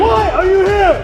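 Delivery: barked call to the ranks; drill shout. Real, not acted. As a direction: shout the question at recruits.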